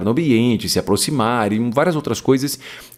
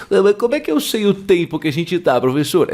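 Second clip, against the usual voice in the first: curious student; 6 semitones higher than usual. Pretend. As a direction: ask like a puzzled student. Imagined student question. (voz de aluno curioso)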